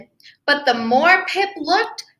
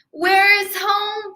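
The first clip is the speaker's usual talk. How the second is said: lost little cry; 6 semitones higher than usual. Acted. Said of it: "Pip cried".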